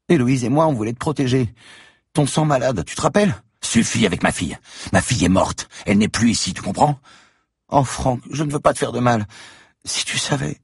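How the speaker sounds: put-on high childlike voice, pleading; little girl voice. A narrator's reading. Girl confessing to Franck, high pleading child voice. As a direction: play the frightened little girl, high and tearful.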